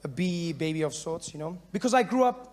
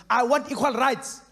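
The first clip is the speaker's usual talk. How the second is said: higher, louder protest rant building to a shout; angry protester; 7 semitones higher, 5 dB louder than usual. Retold or imitated. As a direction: rant at the bench and bus rules, climbing to a yell. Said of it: "The first guy standing there going".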